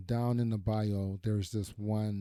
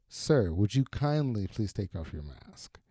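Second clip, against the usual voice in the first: whispered ask. Retold or imitated. Hostess politely asks again.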